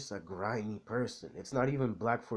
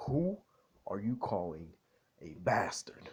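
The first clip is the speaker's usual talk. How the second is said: put-on British accent. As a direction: pause between phrases in a mock British accent. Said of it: "British accent for a bit".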